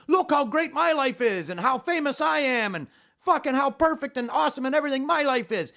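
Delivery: high-pitched mock bragging; gushing self-praise, said with scorn; mocking boast. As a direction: parody a social media show-off. Mocks social media braggers.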